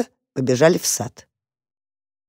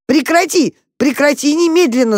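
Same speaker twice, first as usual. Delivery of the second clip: urgent scolding; 9 semitones higher, 3 dB louder than usual. A narrator's reading. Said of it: "забарабанил Там по ведру".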